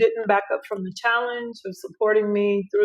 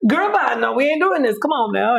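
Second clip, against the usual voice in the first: sassy dismissive; 5 semitones higher than usual. Retold or imitated. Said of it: "God was like".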